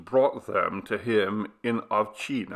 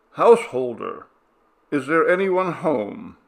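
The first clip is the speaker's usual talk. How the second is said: loud call to the house; 6 semitones higher, 7 dB louder than usual. A narrator's reading. Villager calling loudly at the gate. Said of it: "Kmet Perko shouted".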